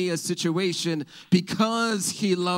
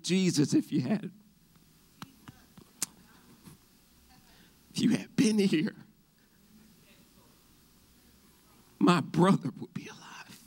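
Mary's grief; 4 semitones higher than usual. Acted. Mary grieving at Jesus' feet.

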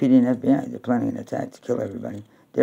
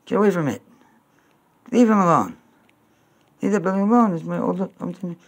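high pleading yell; 7 semitones higher than usual. Real, not acted. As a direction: shout at the plane to leave his building. Yelling at plane on screen.

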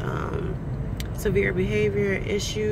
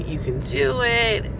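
positive affirmation; 5 semitones higher, slower than usual. Shown as a demonstration. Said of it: "I recite positive affirmations to myself".

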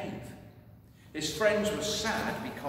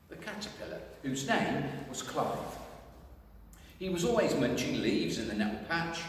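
usual speaking voice

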